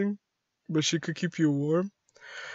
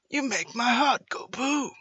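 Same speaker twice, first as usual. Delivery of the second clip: higher-pitched shaky attempt at Australian; badly faked Australian accent, pitched up; 6 semitones higher, 3 dB quieter than usual. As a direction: have a failed go at an Australian voice. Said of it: "I can't do an Australian voice".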